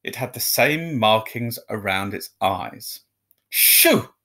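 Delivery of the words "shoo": sharp high shout; loud shoo. A narrator's reading. Mister Dursley shooing the cat off his wall, loud. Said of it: "said Mister Dursley loudly".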